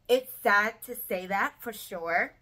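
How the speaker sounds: fighting back tears while speaking of her late dad; emotional. Real, not acted. Vlogger speaking of her late dad, slow and choked up. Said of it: "Sorry, I'm getting really emotional".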